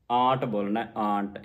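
ਆਂਟ with nasal long aa; nasalised vowel. Shown as a demonstration. Teacher drilling the word, nasalised ਆਂਟ. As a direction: put the bindi's nasal sound in ਆਂਟ. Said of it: "ਇੱਥੇ ਬਿੰਦੀ ਲੱਗੀ".

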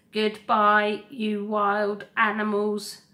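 loud, drawn-out goodbye; echoing farewell. Acted. Robot calling goodbye to every island animal, loud. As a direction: call it out across the crowd. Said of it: "Roz's voice echoed through the grey".

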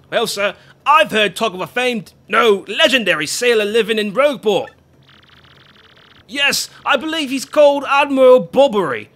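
put-on loud, hearty old deckhand call; gruff sailor Pa-Patch. Sailor calling to Flavio, loud and hearty. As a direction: bellow across the harbor like a sailor.

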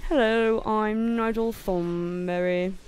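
loud, drawn-out cartoon impression; big, slow, loud character greeting; Nigel Thornberry. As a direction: stretch it out in a hammed-up cartoon character voice. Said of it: "that's what that one was from".

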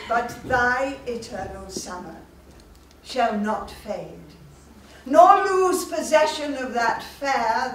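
slow, measured poetry reading with weighty pauses; proud mother reciting the sonnet from her daughter's wedding, slow and tender; sonnet recitation. Acted. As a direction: recite it with love, savouring each line.

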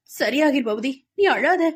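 gentle reassurance; comforting a crying friend; consoling. A narrator's reading. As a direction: soothe him while stroking his hair. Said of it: "ஆறுதல் மொழிந்தாள்".

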